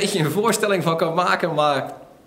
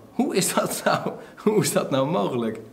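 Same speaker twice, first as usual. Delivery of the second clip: doubting thought. Retold or imitated. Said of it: "Hij dacht".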